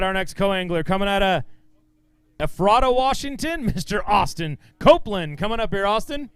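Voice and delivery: lifted, projected introduction; stage announcer. Real, not acted. Emcee calls the next co-angler up, announcer style. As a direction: call the contestant up in front of a crowd.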